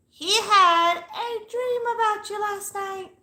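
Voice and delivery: high, slow psychic reading voice, drawn out; hammed-up psychic reading; mystic reading voice. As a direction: play a dramatic fortune teller. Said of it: "Don't you guys love my readings?".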